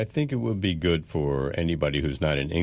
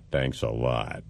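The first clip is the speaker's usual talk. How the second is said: sarcastic mock thanks; dry, insincere gratitude; 3 semitones lower, slower than usual. Shown as a demonstration. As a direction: say it as if you don't mean it at all. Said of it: "by the way you say thank you".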